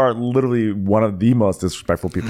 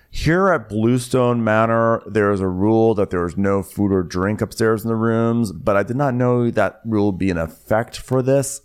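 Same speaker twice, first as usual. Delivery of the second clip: staff member interviewed. Retold or imitated. House staffer explaining the rule, mock-formal. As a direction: imitate a measured, stiff house manager. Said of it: "he's in the interview room, and he goes".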